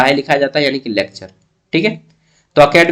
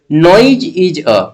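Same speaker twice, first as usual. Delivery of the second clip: slow reading; much slower than usual. Shown as a demonstration. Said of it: "reads question word by word".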